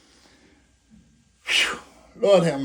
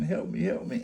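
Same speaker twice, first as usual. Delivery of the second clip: retold scream; 10 semitones lower, 7 dB quieter than usual. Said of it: "hollering and screaming".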